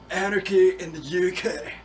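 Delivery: slowed, imitated British punk slogan; mock British accent. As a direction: mimic posers putting on a British accent. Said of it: "They would say things like".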